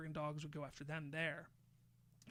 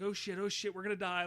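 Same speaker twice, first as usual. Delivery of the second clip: mock panic, higher and louder; panicked; 3 semitones higher, 6 dB louder than usual. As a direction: act out a group in alarm. Acting out the panicked kids.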